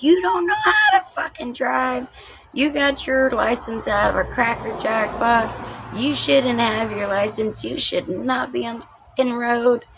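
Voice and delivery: shrill panicked rage at the driver; furious yelling. Retold or imitated. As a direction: scream at her like she nearly killed you. Screaming at mom after hydroplaning.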